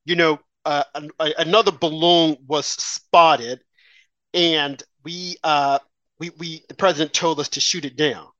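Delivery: a lightly voiced press spokesman, slow and stumbling; halting official. Mocking the press spokesman at a Friday briefing, halting and slow. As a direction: fumble the words like a spokesman caught off guard. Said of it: "he's gonna say".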